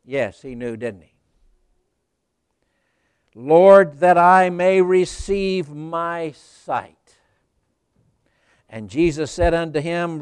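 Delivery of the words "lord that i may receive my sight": loud on Lord, then slow earnest plea; pleading loudly. Retold or imitated. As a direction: beg for sight from the heart. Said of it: "blind man's request".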